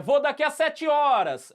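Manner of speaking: high, slow cheeky answer; cheeky reply. Retold or imitated. Kid cheekily telling mother he'll go later, slow and high.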